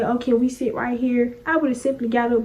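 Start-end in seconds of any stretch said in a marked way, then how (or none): 0.0-1.4 softer, polite request; modelled courteous question, kept soft; respectful. Retold or imitated. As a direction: ask politely and unassumingly for a seat. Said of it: "in a respectful manner and said".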